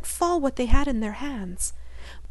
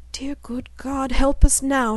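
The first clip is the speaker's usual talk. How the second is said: desperate prayer; 4 semitones higher than usual. Acted. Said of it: "she exclaimed".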